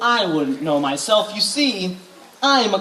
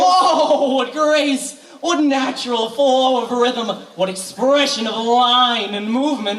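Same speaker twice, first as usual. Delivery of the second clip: flattering rapture; 3 semitones higher, slower than usual. Acted. Professor flattering the mayor's wife.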